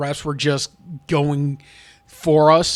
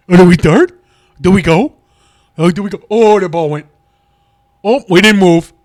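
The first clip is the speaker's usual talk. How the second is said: confused linemen; 9 dB louder than usual. Retold or imitated. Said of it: "we're just looking at Jones like".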